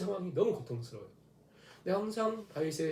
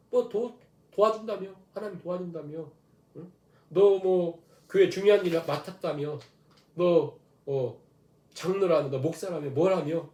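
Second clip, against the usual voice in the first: mocking taunt; 3 semitones higher, slower than usual. Preacher voicing the crowd mocking the believer, sneering taunt. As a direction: jeer at him like the scoffing crowd. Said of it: "하면서 막 사람들 비웃는 거예요".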